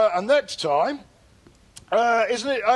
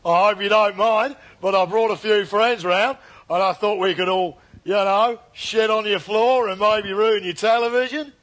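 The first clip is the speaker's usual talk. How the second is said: Australian accent; 3 dB louder than usual. Shown as a demonstration. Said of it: "So that's kind of Australia via Huddersfield?".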